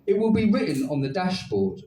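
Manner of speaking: lightly voiced robot greeting; flat mechanical robot voice. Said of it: "said the robot".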